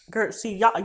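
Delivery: real flustered false start; worked-up stuttering. Real, not acted. Speaker breaks off the story, too mad, stuttering. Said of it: "I'm stuttering, bitch".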